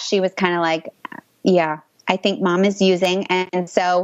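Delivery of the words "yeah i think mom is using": ordinary delivery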